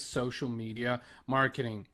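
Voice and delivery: the word "social" set apart and weighted; stress on social. Real, not acted. Podcaster rounding out the tips for listeners, stress on "social". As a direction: lean deliberately on "social" before "media marketing". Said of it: "Emphasis on the word social".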